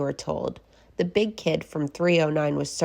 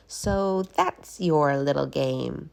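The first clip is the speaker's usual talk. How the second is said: sly witch; 2 semitones lower, slower than usual. Acted. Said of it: "said Miss Swamp".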